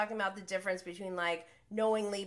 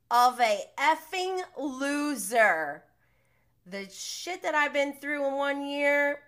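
raised, indignant retelling of an insult; retold tirade; 5 semitones higher, 4 dB louder than usual. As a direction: act out her angry outburst, slightly pushed up. Retells a cast member's angry tirade.

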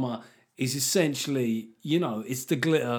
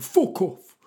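put-on high, stretched kid yelling swears; twelve-year-old's swearing; 9 semitones higher, much slower than usual. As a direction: imitate a boy telling off the ref. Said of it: "He went".

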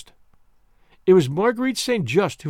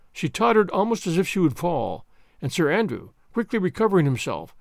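ordinary delivery

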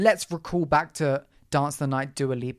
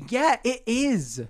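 sarcastic drawl; 5 semitones higher, 4 dB louder, slower than usual. Real, not acted. Mocking male critics.

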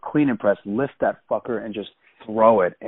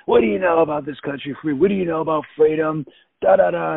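higher-pitched mock indignation; imitated yelling woman; 6 semitones higher than usual. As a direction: mimic her angry challenge without really shouting. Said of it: "The woman that's yelling at me".

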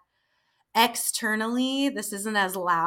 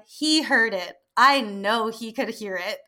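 retold accusation, rising into the challenge; mock accusing. Accusing the sound guy of hearing it, mock insistent. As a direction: playfully confront someone, pitch climbing.

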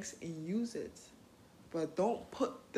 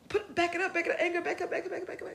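high, brisk shooing; shooing anger away; 10 semitones higher, 4 dB louder, faster than usual. Pretend. Telling her own anger to back off and step aside. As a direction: wave the anger off.

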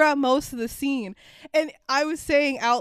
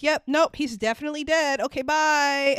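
quick, dismissive phone sign-off; brisk mock fed on the phone; Federal Agent Manners; 3 semitones higher than usual. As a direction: hurry the caller off the line. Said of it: "and he's like".

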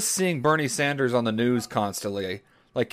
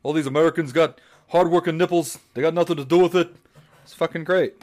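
Bernie Sanders; 3 semitones higher than usual. Acted. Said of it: "It's like Bernie's right next to me".

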